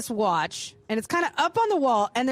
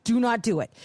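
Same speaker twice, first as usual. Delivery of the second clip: stern to herself; 4 semitones lower than usual. Retold or imitated. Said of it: "I'm being really stern with myself".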